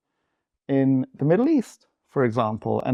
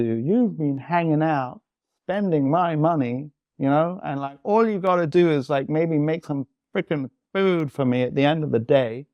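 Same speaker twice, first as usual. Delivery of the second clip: retold inner rant; 4 semitones higher than usual. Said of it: "what comes up for me is".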